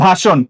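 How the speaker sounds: ভাষণ with a sh sound and a rounded o; model pronunciation. Shown as a demonstration. Teacher answers what the word became, model pronunciation. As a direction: say ভাষণ as bha-shon. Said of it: "ভাষণ কি হয়েছে?".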